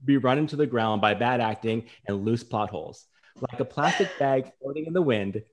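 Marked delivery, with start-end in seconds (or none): 0.0-3.1 laughing while reading the review; words shaking with giggles; fighting back laughs mid-sentence; reading through laughter. Real, not acted.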